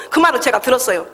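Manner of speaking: ordinary talk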